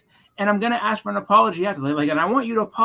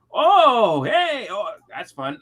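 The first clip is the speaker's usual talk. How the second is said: high, quick excited cheer; mock excited commentary; 4 semitones higher, 4 dB louder, much slower than usual. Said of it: "I'm just like".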